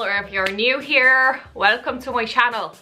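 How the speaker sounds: put-on playful American accent sliding into Irish; American turning Irish. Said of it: "That changed from American to Irish".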